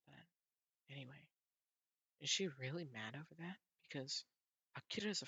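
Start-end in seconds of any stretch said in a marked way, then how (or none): 0.1-1.2 trailing off. Real, not acted. Trailing off after embarrassed admission.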